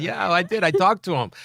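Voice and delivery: imitating his sister. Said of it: "She said".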